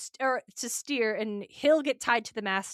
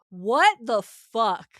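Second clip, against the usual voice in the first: shocked disbelief; 5 dB louder, much slower than usual. Retold or imitated. Reaction to Athena spearing her.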